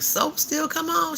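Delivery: high, slow disbelieving ask; can't believe soaps still air; amazed question. Retold or imitated. Asking her friend, high and slow in disbelief. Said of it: "Then I'm like".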